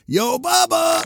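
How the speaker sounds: high sing-song call. Acted. Calling out to AI assistant.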